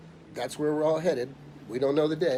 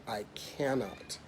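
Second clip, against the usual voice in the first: slow, softer, restrained refusal; quiet refusal; 6 dB quieter, slower than usual. Retold or imitated. Insurance man refusing to explain to a client, quiet and slow. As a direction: refuse gently and slowly. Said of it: "he was very quiet".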